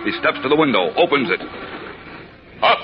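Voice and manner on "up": heroic cry. Acted. Hero's takeoff cry.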